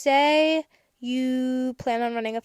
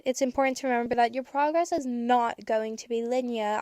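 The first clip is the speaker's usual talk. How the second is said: put-on light British accent slipping in. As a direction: let a hint of British accent come out. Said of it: "I don't know why I'm British".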